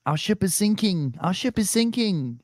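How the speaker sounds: high-pitched German sailor's distress call; radio for help in a mock German accent, high and urgent. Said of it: "like, a German, like, two, two German boats".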